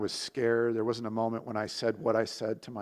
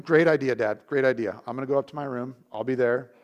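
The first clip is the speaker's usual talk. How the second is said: louder, mock-eager yes to dad; sarcastic agreement; 7 dB louder than usual. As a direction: overplay the cheerful agreement. Sarcastic boy answering dad.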